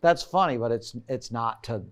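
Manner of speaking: lightly voiced exasperated partner, drawn out; playful mock of a girlfriend who is fed up; imitating annoyed girlfriend. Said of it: "She's like".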